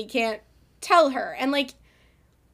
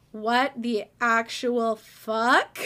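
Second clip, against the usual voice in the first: stunned disbelief; much slower than usual. Retold or imitated. Acts character's stunned reaction.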